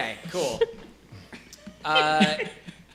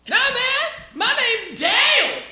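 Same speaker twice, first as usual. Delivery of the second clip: much higher, laid-back dude voice; Dale the peasant; 6 dB louder, slower than usual. Acted. Peasant Dale introduces himself, high and chill. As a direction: shrug it off easily. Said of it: "He's like".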